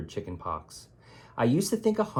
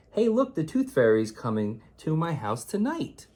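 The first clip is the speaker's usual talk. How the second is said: excited; 6 semitones higher, 4 dB louder than usual. Acted. Child announces lost tooth excitedly.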